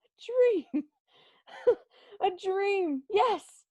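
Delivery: high, laughing cry of relief; joyful disbelief. Acted. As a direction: laugh it out, overjoyed. Realizes it was a dream.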